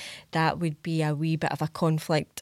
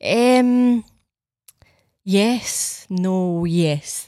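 flustered hesitation; 2 semitones higher, 4 dB louder, much slower than usual. Retold or imitated. Host floundering to Stacey about the drawing. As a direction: stall before committing. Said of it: "looking at this pure shite drawing".

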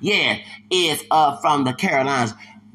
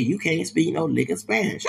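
laughing quote; 2 semitones higher than usual. Retold or imitated.

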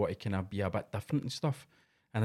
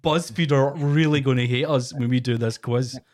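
put-on sanitised Scottish accent; 3 semitones higher, 6 dB louder than usual. Mocking podcasters who water down their Scottish accent. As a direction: mimic a watered-down Scottish accent so everyone understands. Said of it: "that kinda sanitised Scottish they were talking with".

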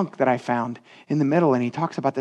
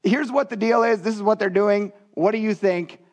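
lightly voiced governor, pitched up; Tatanai; 4 semitones higher than usual. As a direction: report it as a lightly mimicked official.

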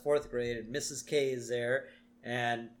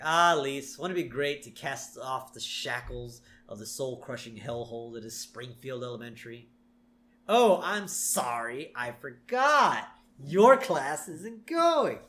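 excited teasing. Retold or imitated. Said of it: "he's very excited".

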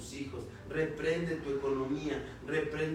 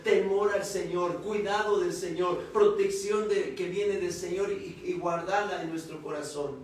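raised, emphatic sermon delivery; preaching; 4 semitones higher, 4 dB louder than usual. Real, not acted. Preacher testifying to the congregation about obeying God, emphatic preaching.

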